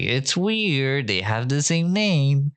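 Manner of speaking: high, drawn-out mocking voice; mock suspicion, pitched well up; mock impression of commentator. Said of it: "she might be like".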